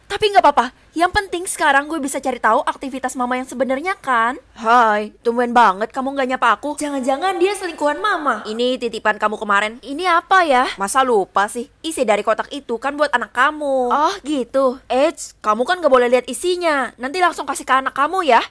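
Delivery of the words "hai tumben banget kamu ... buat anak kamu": low male lover. Acted. Mother's secret lover voiced.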